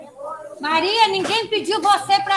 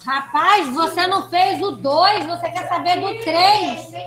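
loud, indignant challenge; scolding; 7 dB louder, slower than usual. Real, not acted. Teacher to a pupil who skipped number two, scolding. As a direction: take a pupil to task loudly.

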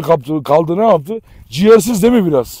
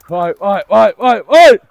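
building amazed wow; 3 dB louder, slower than usual. Real, not acted. Owner marvels at his pigeons, wonder rising to a loud cry. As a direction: let the wonder grow with each vay.

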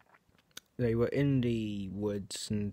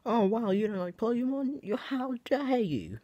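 mock outraged commenter; 10 semitones higher, 4 dB louder than usual. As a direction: squeal it like an offended fan. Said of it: "before you start commenting".

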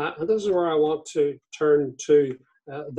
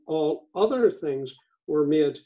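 other leaned on, said with extra weight; reading scripture with other emphasized; stress on other. Shown as a demonstration. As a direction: lean into the word other while reading. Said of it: "I emphasize the word other".

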